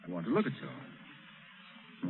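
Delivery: slow, soft unvoiced whisper. Captain leering at the captive girl, slow whisper. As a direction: breathe it close to her ear.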